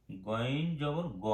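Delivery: গইন জবর গ said slowly, গ with a short vowel only; slow recited letter. Shown as a demonstration. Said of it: "শুধু গ".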